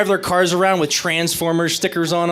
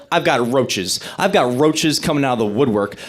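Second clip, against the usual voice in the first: certain complaint; 5 semitones lower than usual. Retold or imitated. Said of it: "I'm like".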